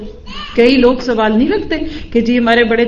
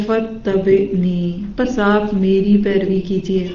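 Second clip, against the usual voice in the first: lovingly. Retold or imitated. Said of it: "بڑے پیار سے کہتے ہیں".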